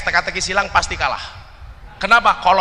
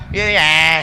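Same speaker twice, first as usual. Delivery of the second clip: Pantura speech; 2 semitones lower, 4 dB louder than usual. Retold or imitated. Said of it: "Ngomongnya gimana?".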